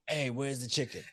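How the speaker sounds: a hint of a talking stomach, half laughing; lightly voiced stomach. Teasing co-host as his growling stomach, lightly voiced. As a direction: lightly play a hungry belly speaking up. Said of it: "You were like".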